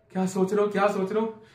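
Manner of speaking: mock girlfriend's quiet, insistent question; lightly voiced pestering girlfriend. Mimics girlfriend asking over and over.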